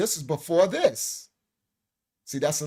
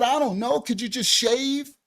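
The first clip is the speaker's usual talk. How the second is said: sheepish plea; 6 semitones higher, 4 dB louder than usual. Retold or imitated. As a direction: timidly ask him to shave. Pleading with doctor.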